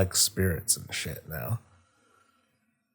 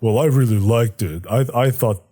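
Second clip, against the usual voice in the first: Sargeras sulking. Retold or imitated. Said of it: "Sargeras is like".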